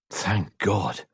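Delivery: heavy sigh of relief; relieved. Acted. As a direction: breathe the words out in relief. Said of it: "relief heavy in his voice".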